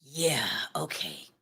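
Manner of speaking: low, slow, hushed scepticism; very soft, drawn-out brush-off; dismissive disbelief. Real, not acted. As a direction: drag it out under your breath, unconvinced. Dismissing the woman's praise of him.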